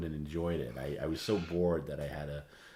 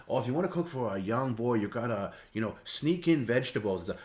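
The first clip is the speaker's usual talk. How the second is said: imitating the chef; 5 semitones higher, 3 dB louder than usual. Chef Juan answering, imitated.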